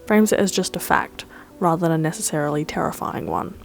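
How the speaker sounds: measured, scripted video-essay narration; scripted voice-over. Acted. Host reviewing My Neighbor Totoro for viewers, scripted voice-over. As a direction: read it as a composed film-review voice-over.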